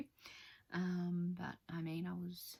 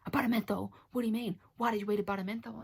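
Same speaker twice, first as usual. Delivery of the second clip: alarmed nurse; 3 semitones higher, 7 dB louder, faster than usual. Retold or imitated. Nurse panicking at the patient about the lozenge, loud and fast. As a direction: play the nurse in a frantic fluster.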